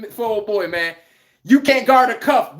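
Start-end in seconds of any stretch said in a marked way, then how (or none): 1.4-2.6 mock callout. Calling out to old player.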